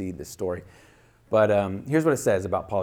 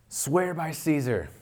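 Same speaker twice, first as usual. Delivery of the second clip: a slow, high, ringing command; governor's shout; 7 semitones higher, slower than usual. Acted. Governor ordering the old bishop, slow raised shout. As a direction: demand it from the imperial box. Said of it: "the governor shouted".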